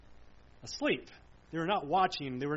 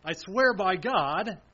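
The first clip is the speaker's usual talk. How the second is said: slow, louder solemn swearing; solemn oath; 5 dB louder, slower than usual. Retold or imitated. Preacher voicing Peter's oath to the crowd, solemn. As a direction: swear it slowly, as a vow. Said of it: "a very solemn oath".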